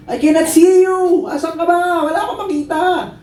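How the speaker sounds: hammed-up desperate yelling; panicked child. Trapped child calling through smoke, panicked high shouting.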